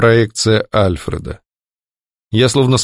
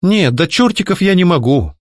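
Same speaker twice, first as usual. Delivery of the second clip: higher, theatrically lilting tease; mock singsong; 7 semitones higher than usual. Heroine mocking the kidnapper's idiom, theatrical singsong. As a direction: sing it out in exaggerated play. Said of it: "наигранно пропела я".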